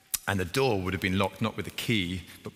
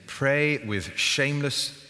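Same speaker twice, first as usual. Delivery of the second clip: announced heading; much slower than usual. Shown as a demonstration. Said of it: "let me introduce the second heading".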